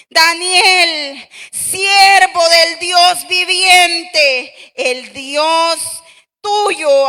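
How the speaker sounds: sad voice. Acted. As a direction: call out slowly in sorrow to Daniel. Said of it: "con voz triste".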